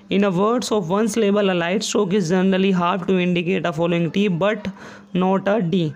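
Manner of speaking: reading the rule word by word, slowly; slow textbook reading; slow dictation read. Shown as a demonstration. Reads rule from book slowly.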